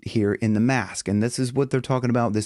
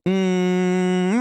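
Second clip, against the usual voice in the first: buzzing nasal hum; nasal hum demo; 6 semitones higher than usual. Shown as a demonstration. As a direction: hum into the mask. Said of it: "oh, I feel a buzz there".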